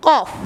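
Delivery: "cough" said alone, from the back of the tongue; tongue-base letter sound. Shown as a demonstration. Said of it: "The base of the tongue touches the palate".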